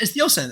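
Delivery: "ocean" as OH-sin, said matter-of-factly; deliberate mispronunciation. Shown as a demonstration. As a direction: say "ocean" with S instead of SH. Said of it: "you could say ocean instead".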